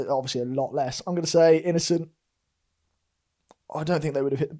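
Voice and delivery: talking through hiccups; hiccuping between words. Real, not acted. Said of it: "got the hiccups now".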